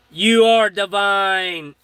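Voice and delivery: slow, drawn-out divine proclamation; lightly imitated voice from above, slow; thunderous voice. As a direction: retell a voice like thunder, stretching the words. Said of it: "I sound like thunder".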